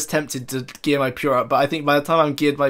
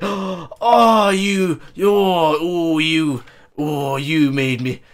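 startled panic; 5 dB louder, much slower than usual. Real, not acted. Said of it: "Oh, you're so mean".

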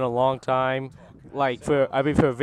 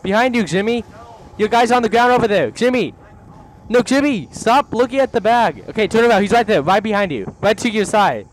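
urgent calling out; 4 semitones higher, 4 dB louder than usual. Real, not acted. Urgently directing teammates in game.

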